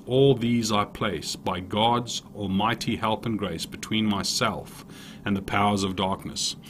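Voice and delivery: put-on measured, rhythmic reading of an old prayer; prayer recital. Preacher reading Saint Patrick's prayer to listeners, prayer recital. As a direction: read it as a litany, line by line.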